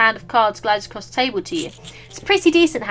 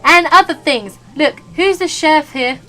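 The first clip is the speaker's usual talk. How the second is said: steady sheriff drawl; 4 semitones higher, 7 dB louder than usual. Acted. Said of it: "standing like the sheriff again".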